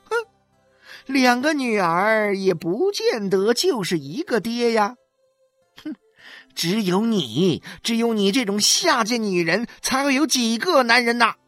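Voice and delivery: high, loud, biting scorn with scoffing huffs; scornful yelling. A narrator's reading. 许玉兰 yelling scorn at 何小勇's wife. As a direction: spit every insult back at her. Street quarrel between two wives.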